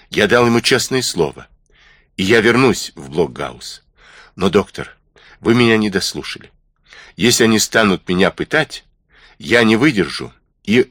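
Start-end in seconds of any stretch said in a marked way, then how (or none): none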